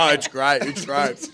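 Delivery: talking through a mouthful; mouth full. Real, not acted. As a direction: speak around a bite of food. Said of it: "make you talk with your mouth full".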